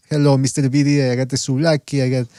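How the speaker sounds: lightly imitated Greek accent. Host imitating a Greek caller's greeting, mock Greek accent. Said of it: "the Greek accent".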